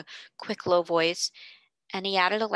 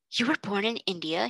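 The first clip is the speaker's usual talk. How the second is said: exclaiming. Acted. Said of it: "he exclaimed".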